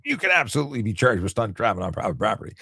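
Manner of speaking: faint Southern Western twang, half-joking; light Southern twang. Retold or imitated. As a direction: toss a little Southern twang onto it. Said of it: "added a Southern t-, twang or Western thing to it".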